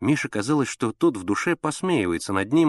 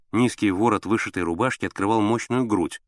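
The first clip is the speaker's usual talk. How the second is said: ordinary delivery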